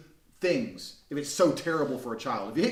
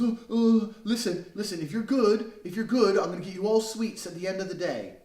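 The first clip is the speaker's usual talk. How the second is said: put-on higher, louder coaxing mum bribing her kids; pleading mother; 4 semitones higher, 4 dB louder than usual. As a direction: beg the kids to behave with a promise. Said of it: "She goes".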